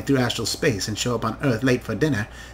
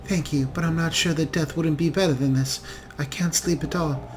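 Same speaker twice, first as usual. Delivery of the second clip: put-on frightened young elf; 4 semitones higher than usual. Sleepless daughter tells her rescuer her fear, higher and hushed.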